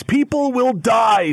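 high, slow hammed-up shriek of panic; mock scream. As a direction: wail it like a melodramatic protester. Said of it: "somebody screams".

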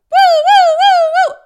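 very high, loud siren woo; mimicking the door alarm going off; alarm imitation. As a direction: wail like a shop alarm.

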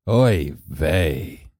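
put-on Yiddish-accented oy vey catchphrase. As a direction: sigh it like an old Jewish grandpa. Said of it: "How's that? Is that good?".

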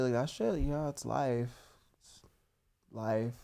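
low, soft moody singer voice; impression of a singer. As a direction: mumble it like a sad emo kid. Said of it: a singer's name.

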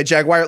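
"jaguar" said as "jag-wire"; imitated pronunciation. Asking listeners about people who say "jaguar" as "jag-wire". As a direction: say "jaguar" rhyming with "McGuire". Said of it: "if you know why people say".

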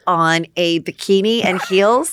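a hint of a bubbly realtor; lightly voiced Chrishell flirting. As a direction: play Chrishell meeting her future wife. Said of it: "I'm gonna be Chrishell".

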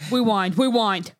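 rewind said as wiwond, w for r; says w for r. Real, not acted. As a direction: wewind wewind with w. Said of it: "I can't say my R's".

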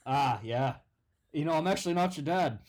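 put-on lightly done Australian accent; a hint of an Aussie stepdad; Australian dad. Stepdad talking to the son in a light Australian accent. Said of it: "I'm not even from Australia".

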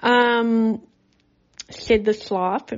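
talking with retainers in; slight retainer lisp; wearing a retainer. Real, not acted. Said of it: "I have my retainers in".

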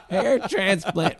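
put-on high, slow drunk-girl voice; imitated drunken high call; drunk heckler. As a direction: drag it out as a mock heckler. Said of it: "she's like".

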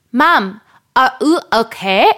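small son with a German-tourist lilt; imitated German-tourist toddler. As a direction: mimic a toddler sounding lightly German. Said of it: "my little German Taurus".

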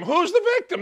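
usual speaking voice

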